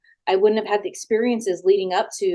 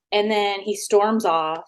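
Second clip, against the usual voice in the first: ordinary talk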